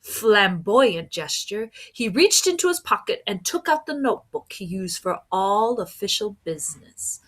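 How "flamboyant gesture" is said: ordinary delivery, nothing marked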